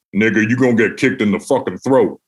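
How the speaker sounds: a hint of Keith's blunt warning, laughing; lightly voiced Keith warning. Retelling Keith's blunt warning about the Bronx gig, lightly voiced. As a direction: warn him half laughing. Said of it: "his exact words were".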